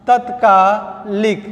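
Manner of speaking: तत्कालिक said slowly, short ta at the start; slow teaching pronunciation. Shown as a demonstration. Teacher to students, slowly saying the wrong form. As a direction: spell out तत्कालिक slowly for the class. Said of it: "तत्कालिक नहीं होता है".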